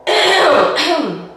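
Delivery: raspy from a cold; hoarse, husky voice from a cold. Real, not acted. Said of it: "why I sound like a smoker right now".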